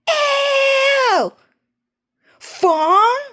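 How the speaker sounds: very high, drawn-out squeals and shrieks; mean sister. Retold or imitated. Cho playing his mean sister gushing over Fong, squealing high. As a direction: shriek and gush like a spoiled mean girl.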